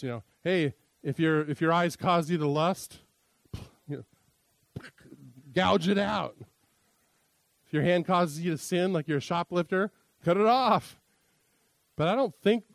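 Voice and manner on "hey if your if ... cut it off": building to a mock shout at the end; hamming up a rabbi's exaggeration; rabbi exaggerating. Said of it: "They would love this".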